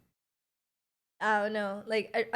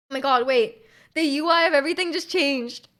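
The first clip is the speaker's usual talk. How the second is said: louder, sudden "Oh my god, wait"; surprised; 2 semitones higher, 5 dB louder than usual. Real, not acted. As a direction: caught off guard by the phone. Phone interface suddenly changed.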